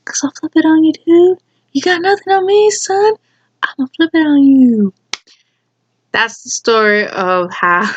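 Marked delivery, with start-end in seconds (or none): 0.0-4.9 mock tough-guy boast; cocky taunt. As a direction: taunt a bully who lost. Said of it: "taunting imagined bully".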